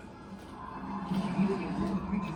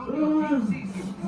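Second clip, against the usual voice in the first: loud urgent command; shouted order; 6 semitones higher, 12 dB louder than usual. Acted. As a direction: bark out the order to the crew. Captain orders crew urgently.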